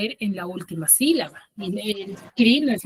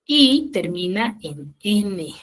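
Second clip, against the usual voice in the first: slow teaching pace; much slower than usual. Shown as a demonstration. Teacher spelling out the rule.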